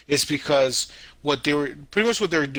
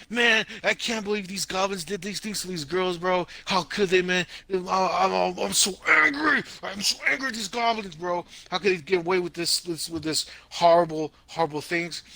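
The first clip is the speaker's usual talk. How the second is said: half-hammed outrage, voice pitched up; mock angry fan; 5 semitones higher than usual. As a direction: play the fuming viewer, a bit over the top. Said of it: "so you're all mad, you're all miserable".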